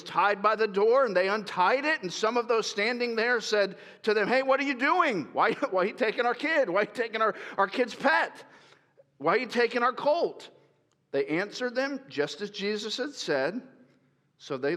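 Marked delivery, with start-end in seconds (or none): 4.3-10.5 raised, indignant mock protest; lightly voiced owners, upset; mild mock outrage at the theft; protesting villagers.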